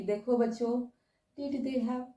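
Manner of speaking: mock dull, quiet teacher droning the drill; low-energy teacher. Teacher mocks a dull class, flat and quiet. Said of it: "क्या आपके पास energy आएगा".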